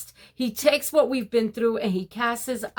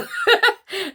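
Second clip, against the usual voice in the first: a sudden high laugh at her own joke; high burst of laughter; 12 semitones higher, 5 dB louder than usual. Real, not acted. Laughing at her crab joke to the ladies, a high real laugh.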